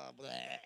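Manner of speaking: mock disgusted groan, low and quiet; a tired low ugh of disgust. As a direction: groan it off like you're fed up. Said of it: "And I'm like".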